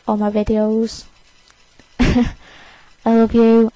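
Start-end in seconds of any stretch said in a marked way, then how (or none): 2.0-3.7 sincere. Real, not acted. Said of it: "I've just said that out loud for the first time".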